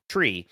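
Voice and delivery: low, soft tree with a CH onset; tree as "chree". Shown as a demonstration. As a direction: open tree on CH, not T. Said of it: "it's like a C H sound".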